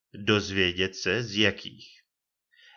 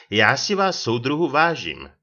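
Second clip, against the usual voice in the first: high, loud, exasperated protest; annoyed; 5 semitones higher, 6 dB louder than usual. A narrator's reading. Lieutenant remonstrating with Čambal, annoyed. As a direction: indignation pushing the pitch up. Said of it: "zlobil se nadporučík Kříž".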